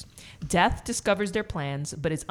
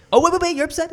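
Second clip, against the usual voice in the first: mock soothing guy; 12 semitones higher, 9 dB louder, much faster than usual. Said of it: "you're like".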